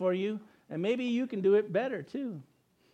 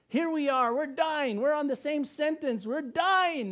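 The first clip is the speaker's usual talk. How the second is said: urgent plea; 6 semitones higher than usual. Retold or imitated. Criminal on cross urges the other to see they're dying, rising pitch. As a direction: pitch climbing higher with each phrase.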